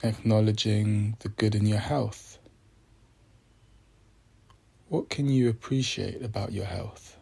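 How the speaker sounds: measured meditation voice with long pauses; unhurried, reflective prompts, phrase by phrase; guided meditation. Acted. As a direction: guide listeners gently, leaving space after each phrase.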